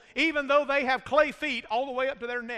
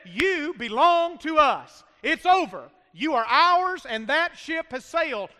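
raised, higher preacher's declaration; emphatic preaching; 4 semitones higher, 5 dB louder than usual. Acted. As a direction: declare it firmly to the family's newcomer.

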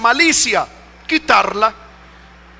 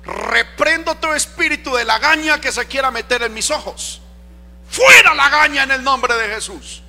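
mock prayer. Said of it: "usted no dice".

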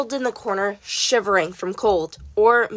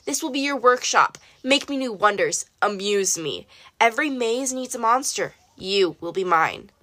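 lightly voiced tyrant, cold and pleased; king condemning Daedalus to his maze; cruel king; 2 semitones higher than usual. King voiced through his decree.

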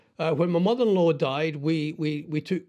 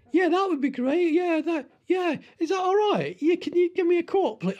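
squeaky-high, flustered customer voice; nervous customer; 13 semitones higher than usual. Acted. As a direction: pitch it way up, eager and nervous. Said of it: "I don't know what my voice would go".

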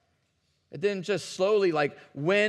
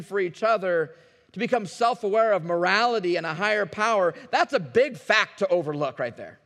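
building, louder preaching push; forceful preaching; 3 semitones higher, 5 dB louder than usual. Acted. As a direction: drive the point home to the church.

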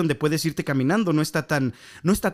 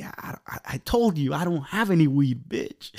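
defiant retort; slower than usual. Retold or imitated. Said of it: "pero bien así".

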